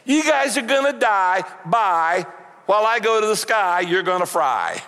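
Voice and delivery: mock-blithe doom, starting high; uncaring Jonah. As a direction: dismiss them breezily as you leave. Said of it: "He doesn't care two bits".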